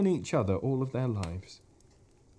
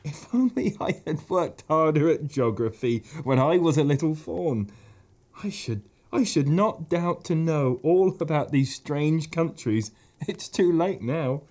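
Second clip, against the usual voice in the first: melancholy; 4 semitones higher, 3 dB louder than usual. Acted. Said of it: "in a rather melancholy voice".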